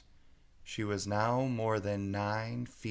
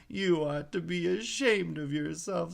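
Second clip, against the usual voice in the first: put-on high, stern scolding girl; Alice scolding herself; 8 semitones higher than usual. A narrator's reading. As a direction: tell yourself off like a strict nanny.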